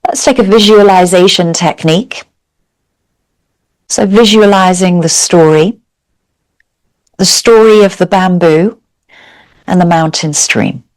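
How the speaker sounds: calm, measured yoga teacher's guidance with long pauses; guided meditation. Real, not acted. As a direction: guide them gently into stillness, leaving space between phrases. Leads a seated yoga meditation.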